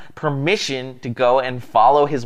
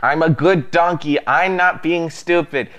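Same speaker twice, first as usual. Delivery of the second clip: higher, mock-scolding donkey; sassy donkey; 4 semitones higher than usual. Donkey scolding its foolish rider, playful sass. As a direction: let the donkey tell him off.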